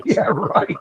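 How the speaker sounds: skeptical retort. Retold or imitated. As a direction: scoff it as a retold comeback. Retold skeptical reply to boast.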